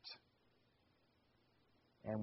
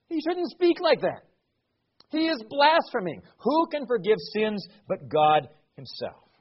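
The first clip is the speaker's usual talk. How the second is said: higher and louder outraged accusation; indignant scribes; 3 semitones higher, 5 dB louder than usual. Acted. Scribes turning on Jesus, loud and indignant. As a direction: throw the charge out in righteous outrage.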